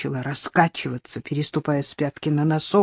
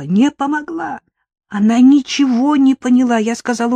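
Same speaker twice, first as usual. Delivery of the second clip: put-on higher, louder, upset child voice; distressed child; 7 semitones higher, 6 dB louder than usual. The speaker as a child, upset and pleading. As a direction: blurt it out like a hurt eight-year-old.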